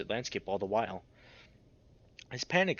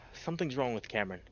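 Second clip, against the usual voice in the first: sighing, shaken; 5 dB quieter than usual. Acted. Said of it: "Dev sobs".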